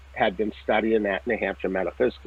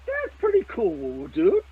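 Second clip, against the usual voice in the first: mock cool dude; 9 semitones higher, slower than usual. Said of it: "and I would go".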